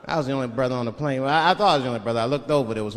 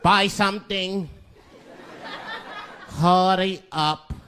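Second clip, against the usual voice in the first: gruff shopkeeper; 3 semitones higher, slower than usual. Retold or imitated. Shopkeeper growling at a customer to hurry, gruff. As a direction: growl it like a grumpy store owner. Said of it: "and growls at me".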